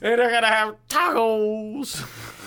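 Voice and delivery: high, slow mimic of the farmer; farmer impression. Friend joins in quoting the farmer, high and slow. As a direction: echo the farmer's glee. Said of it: "That's an earworm".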